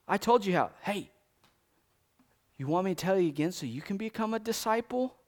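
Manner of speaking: mild sarcastic jab at the leaders. Retold or imitated. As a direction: tease them lightly, with a smirk.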